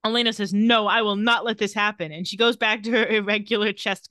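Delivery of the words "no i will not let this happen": loud, retold protest; mock defiant refusal. Refusing to let her friend's mother die, mock defiant. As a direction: imitate a determined refusal, pushed louder. Acting Elena refusing to give up.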